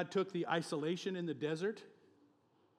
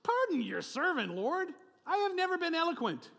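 high, strained pleading voice, much higher and louder; pleading Moses; 13 semitones higher, 7 dB louder than usual. Acted. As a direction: whine your excuse to God like a nervous Moses. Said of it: "this is when he says".

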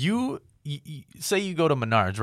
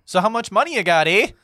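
higher, louder mock Canadian accent; 10 semitones higher, 8 dB louder than usual. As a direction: ham up a northern Canadian accent with a big eh. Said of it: "So they're Canadian".

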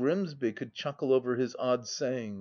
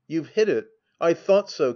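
louder, eager outburst; excited cry; 3 semitones higher, 6 dB louder than usual. A narrator's reading. Drinker crying out to his companions at table. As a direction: cry out as if proven right. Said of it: "cried he".

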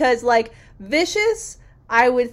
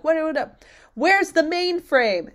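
mock scream; 7 semitones higher than usual. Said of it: "Jet's screaming at the doctor".

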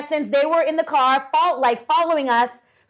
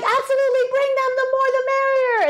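high, airy put-on London accent; mock London host inviting friends over; 12 semitones higher, faster than usual. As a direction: imitate his London accent, light and fast. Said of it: "with his beautiful London accent".

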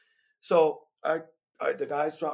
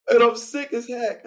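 louder, higher emphatic complaint; louder indignant retelling; 7 semitones higher, 11 dB louder than usual. Real, not acted. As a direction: stress how sick he was. Emphatic complaint while laughing.

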